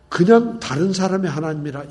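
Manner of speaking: normal talking voice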